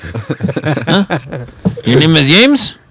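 hammed-up cholo dad with a laugh in it. Father sizing up his daughter's date, mock cholo voice. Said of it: "my cholo voice".

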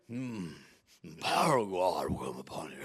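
mock preacher voice. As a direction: put on a deep solemn preacher tone. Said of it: "Then they get to preach".

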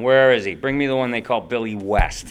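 loud, laughing, hammed-up royal command; mock-grand demanding king. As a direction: bellow like a pompous king laughing. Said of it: "the king of show business".

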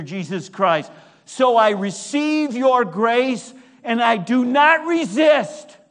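impassioned prayer swelling to a declaration. Acted. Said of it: "I say".

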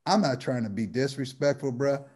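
lightly voiced older street dude, building to an impressed goddamn; imitating an old OG. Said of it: "just like this".

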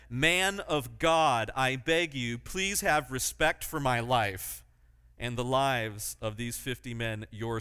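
slow, drawn-out plea; pleading. Retold or imitated. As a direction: beg slowly for your life. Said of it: "he fell on his knees and said".

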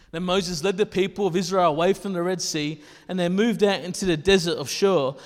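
projected scripture read. Acted. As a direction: read the passage out to the congregation.

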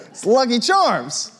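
slow, laughing through the words; can't hold back the laugh. Real, not acted. Pastor telling the congregation the story, laughing through it. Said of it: "So I'm laughing about it".

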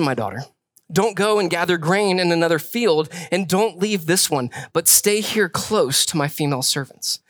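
measured reading of the passage; scripture reading. Acted. Preacher reading Ruth to the church, measured scripture voice. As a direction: read it out to the congregation.

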